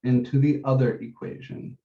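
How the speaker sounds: emphasize the word "other", then let "equation" drop away; stress on OTHER. Real, not acted. Teacher telling students which equation to substitute into, stress on "other". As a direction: lean on "other" in the phrase. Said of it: "I wanna emphasize the word other".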